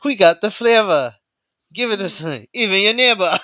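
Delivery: high, giggling jingle imitation, stretched out; sing-song the ad rhyme through laughter; quoting the jingle. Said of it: "I freestyle that piece".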